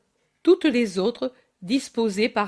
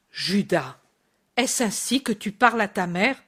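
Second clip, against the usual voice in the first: stern. Acted. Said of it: "demande sévèrement Marie".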